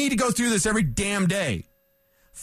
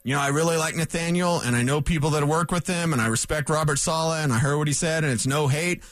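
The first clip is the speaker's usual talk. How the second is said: a lower, hammed-up fake apology; mock apology; 5 semitones lower than usual. Host imitating a rival's apology, lower and mock. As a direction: play a coach's hollow apology. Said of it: "here's what an apology sounds like".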